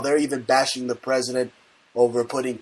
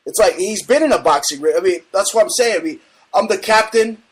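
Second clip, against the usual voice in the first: excited; 4 semitones higher, 3 dB louder than usual. Real, not acted. Host ramps up.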